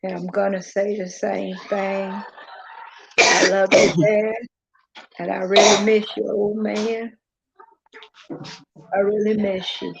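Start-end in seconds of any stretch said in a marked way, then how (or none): 3.2-9.9 emotional. Real, not acted. Saying goodbye to late father.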